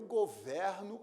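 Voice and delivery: "governo" with an open stressed e, as in "é"; open-vowel pronunciation. Shown as a demonstration. Teacher using the verb in a sentence, open-e "governo". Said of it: "pronúncia aberta".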